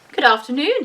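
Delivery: lightly voiced polite bear. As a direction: greet them like a well-mannered bear.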